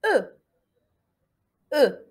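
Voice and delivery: "E" as a short "euh", not O or U; correct French E. Shown as a demonstration. Teacher modelling the second vowel, "E" as a crisp "euh". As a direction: say "E" alone as a firm French euh. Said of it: "نعرف bien كيفاش ننطقو".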